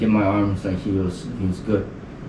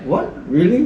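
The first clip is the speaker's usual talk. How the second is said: surprised mom; 7 semitones higher than usual. Retold or imitated. Mom's surprised reaction imagined.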